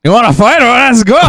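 cocky fight dare; mock tough challenge. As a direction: square up playfully.

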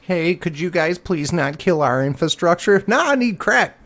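high put-on voices; mock dialogue. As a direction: play both sides, mocking. Voiced exchange with homeless man.

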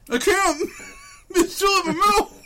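high, loud laughing through food; laughing with mouth full. Real, not acted. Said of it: "Stop chewing".

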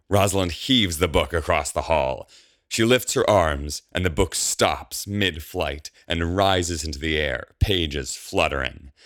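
ordinary delivery

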